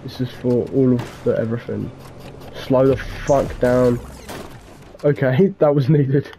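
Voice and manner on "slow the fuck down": very slow, drawn out. Pretend. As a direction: drag every word slowly. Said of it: "show off a bit there".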